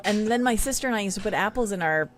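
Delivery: ordinary talk, nothing marked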